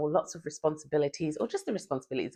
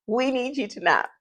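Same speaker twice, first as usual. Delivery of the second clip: laughing plea; 9 semitones higher than usual. Real, not acted.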